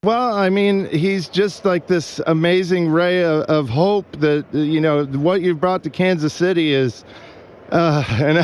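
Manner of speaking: choked up, voice wavering; getting emotional, fighting tears; touched. Real, not acted. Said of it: "this fucking weirdo's crying".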